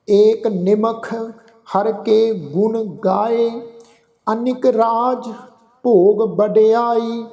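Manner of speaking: slow, measured recitation of gurbani, phrase by phrase; scripture recitation. Acted. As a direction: chant each line devoutly with pauses.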